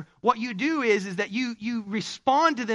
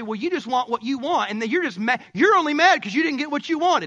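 huffy and mad; 3 semitones higher than usual. Retold or imitated. Husband sniping at clean wife, mock huffy. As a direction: snap back like a sulky husband. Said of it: "get all huffy and mad and say".

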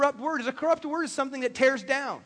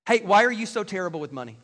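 accusing husband. Shown as a demonstration. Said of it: "I've heard guys say that to their wives".

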